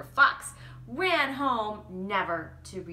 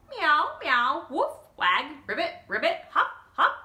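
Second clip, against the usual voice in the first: playful louder meows, woofs and hops; animal noises; 5 semitones higher, 4 dB louder than usual. Acted. Bob the rooster showing his animal sounds. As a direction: list the sounds proudly.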